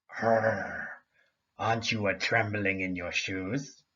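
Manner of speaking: low growling lynx voice; snarling lynx. Acted. Lynx snarling to scare Amparo, low growling voice. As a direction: growl it like a big cat trying to scare.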